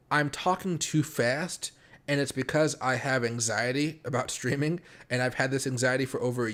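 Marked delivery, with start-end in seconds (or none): 0.1-1.7 deliberately slow, drawn-out words; nervous streamer forcing himself to slow down; slowing down on purpose. Real, not acted. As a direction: rein the pace in hard. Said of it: "I'm gonna try to slow down my voice".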